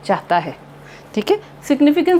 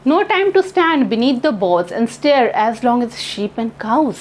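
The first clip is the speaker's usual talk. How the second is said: very slow, measured reading of each line; poem recitation; much slower than usual. Acted. Teacher slowly reciting a poem to her class, measured. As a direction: read the poem aloud slowly for the students.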